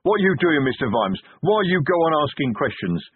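a loyal troll snapping at his boss; snarled. Acted. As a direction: bite the words out at him. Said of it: "snarled Detritus".

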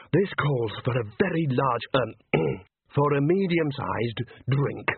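expansive, then checking himself; deliberate, slowing on the revised offer; pleased manager. Acted. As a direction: announce grandly, clear the throat and scale back. Bucket beams, then reins in generosity.

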